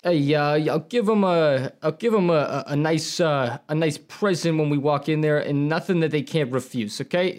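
lightly voiced mob boss, rising pitch; smooth-talking mafioso making an offer they can't refuse; mobster voice. Nevermore plays a mafia boss courting the party guests, a hint of mobster. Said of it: "You're so good at this".

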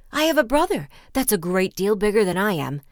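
urgent middle-sized goat bargaining; frightened middle-sized goat. A narrator's reading. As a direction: plead with the troll to wait for big brother. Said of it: "was in great fright".

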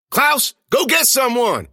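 high, loud, slow desperate yell. A narrator's reading. Narrator yelling at Klaus to fetch help, loud and slow. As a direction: yell at the frozen janitor. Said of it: "I yelled".

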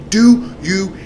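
high-pitched mock yell; retold screaming. Officer demanding an answer from the driver, mock high-pitched yell. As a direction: imitate an angry officer raising his pitch. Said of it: "he's screaming".

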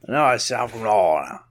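put-on slurred "New Orleans" in local accent. Podcaster correcting his co-host, New Orleans accent. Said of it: "Did you say North Atlanta?".

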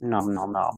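playful spoken eating noises; munch through pretend food. Acting out eating breakfast.

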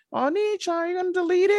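put-on high, childlike plea; little girl voice. Little girl asking Kazuma to delete the photo, childlike and high. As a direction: ask like a small girl to her big brother.

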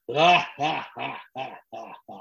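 slow, drawn-out string of laughs; imitated mystery laugh. Comic retelling the sound heard behind him on stage, mystery laugh. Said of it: "I hear behind me".

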